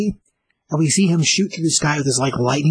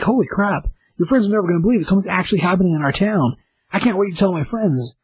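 lightly voiced excited kid, higher pitch; excited little brother; 5 semitones higher, faster than usual. Little brother thrilled about the squid attack, mildly excited.

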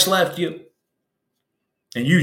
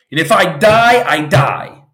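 defiant shout; 3 dB louder than usual. Pretend. A man facing the storm shouting his defiance. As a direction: shout it like you mean to die fighting.

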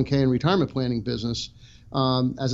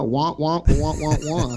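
Charlie Brown's teacher; 2 semitones higher, slower than usual. Retold or imitated. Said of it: "how does that sound?".

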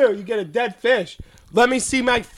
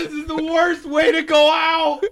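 moaning; 6 semitones higher than usual. Real, not acted. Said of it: "Stop moaning".

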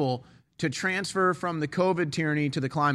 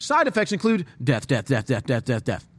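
upbeat ad voice, then flat repeated death; chirpy pitch turning to deadpan doom; cheerful ad with eerie menace; 3 dB louder than usual. Retold or imitated. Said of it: "it's like".

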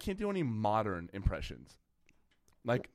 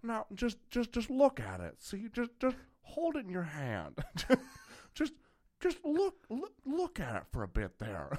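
much higher stammering voice; Jimmy Stewart impression; 9 semitones higher than usual. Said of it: "Dana Carvey ... Jimmy Stewart".

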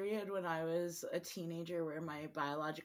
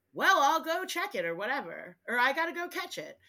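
mock stepmom; 8 semitones higher, 8 dB louder than usual. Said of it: "she's like".

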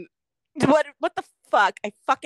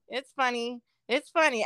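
forced laugh-along; 6 dB quieter, much slower than usual. Retold or imitated. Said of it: "And I'm like".

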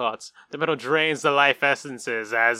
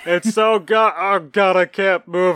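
louder, dazed and stuck; entranced, paralyzed; 3 semitones higher, 5 dB louder, slower than usual. Pretend. Player stuck in the meadow, louder spellbound gasp. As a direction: gush like you're frozen in awe. Playing a charmed, paralyzed character.

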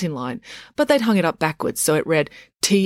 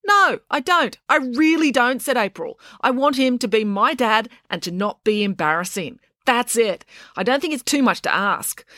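put-on higher, teenage girl insisting her dad stop embarrassing her; indignant girl; 6 semitones higher than usual. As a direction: play the outraged daughter, voice raised high. Narrator voices April.

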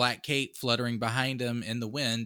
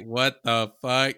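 put-on confused boy; 6 dB louder than usual. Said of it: "The boy was like".

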